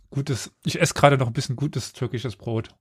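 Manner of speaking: kauend sprechen; schmatzend, Brot im Mund; mit vollem Mund. Real, not acted. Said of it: "Ich schmatze schön hier". (mit vollem Mund sprechen)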